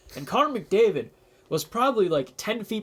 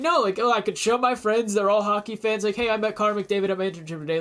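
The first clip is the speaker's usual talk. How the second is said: excited; 4 semitones higher than usual. Retold or imitated. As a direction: gush about meeting a star. Excited retold thoughts.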